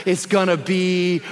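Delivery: very slow, drawn-out reassurance; steady comforting father, unhurried; reassuring dad. Retold or imitated. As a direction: stretch each word to calm frightened children. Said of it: "all I can say over and over again is".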